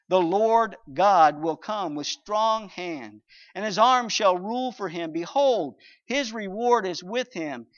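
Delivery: solemn, swelling scripture reading. Acted. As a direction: proclaim the prophecy. Reading Isaiah aloud.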